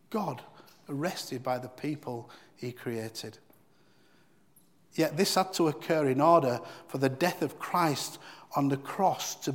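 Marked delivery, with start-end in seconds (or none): 0.1-3.4 slow repeat. Real, not acted. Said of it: "repeated slowly for effect".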